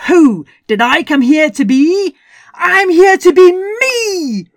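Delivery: high, loud triumphant cry at the moon; joyful shout. Acted. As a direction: fling it up to the moon in joy. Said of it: "she shouted at the moon".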